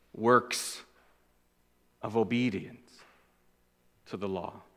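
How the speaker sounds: fading to a near hush on works of obedience to the law; softly trailing off; hushed drop. Acted. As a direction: let the voice sink away to almost nothing. Preacher drops voice on phrase.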